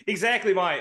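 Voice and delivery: British attempt sliding into Australian; bad British accent. Co-host failing the requested British accent, apologising in a wobbly Australian one. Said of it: "probably fall into Australian".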